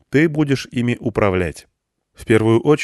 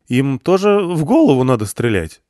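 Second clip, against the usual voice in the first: voice cracking; 5 semitones higher, 4 dB louder than usual. Acted. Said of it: "голос внезапно дал петуха".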